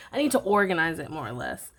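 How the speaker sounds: catching breath midword; talking while short of breath. Real, not acted. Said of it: "Whew, sorry, I lost my breath".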